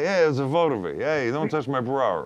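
Boston guy, lightly voiced; Boston accent. Shown as a demonstration. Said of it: "My Boston guy".

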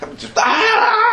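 a high, drawn-out cry of rage while shooting; high shout. Retold or imitated. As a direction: let out a long high yell. Firing wildly, pissed off.

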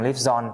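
"live zone" run together, z starting the last syllable; linked sounds. Shown as a demonstration. Teacher repeats the linking for students, "live zone" joined up. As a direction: join the z onto "on", saying "live zone". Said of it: "nối sang live zone".

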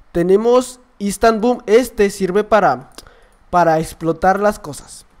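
slow, lightly put-on calm YouTuber voice; normal Skywars YouTuber. Shown as a demonstration. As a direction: explain it slowly, like a composed gaming host. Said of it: "como un youtuber de Skywars normal". (youtuber tranquilo, hablando despacio)

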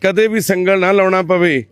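loud, measured proclamation; public appeal. Real, not acted. Asking the congregation to pray for Gurlal, loud proclamation.

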